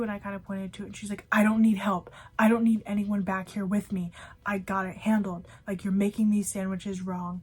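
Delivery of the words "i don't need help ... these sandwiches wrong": loud opening, easing off, mock scolding; irritated yelling, retold. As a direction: imitate a coworker angrily refusing help. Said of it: "yelling at me".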